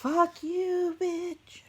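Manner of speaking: high, loud swearing at a sneeze; pissed off. Real, not acted. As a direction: yell at the sneeze in real anger. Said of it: "I'm getting pissed".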